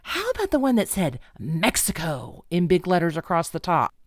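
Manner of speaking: ever so sweetly put question; mock sweet. Friend sweetly corrects her about the border signage, mock sweet. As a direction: imitate a friend's sweet-voiced comeback. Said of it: "looked at me ever so sweetly and said".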